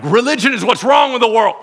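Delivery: loud, high scornful retort; hostile coworker. Acted. Coworker rejecting the prayer offer, loud and scornful. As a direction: snap it back with contempt.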